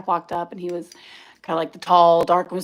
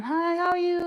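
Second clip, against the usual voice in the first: high-pitched put-on Asian accent greeting; a sweet high Asian accent to hook a caller; 10 semitones higher, 3 dB quieter than usual. Answering a client's call in a put-on high Asian accent. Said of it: "my little thick Asian accent on".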